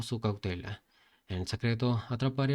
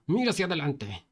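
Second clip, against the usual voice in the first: shout; 4 semitones higher than usual. Acted. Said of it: "el protagonista le gritó".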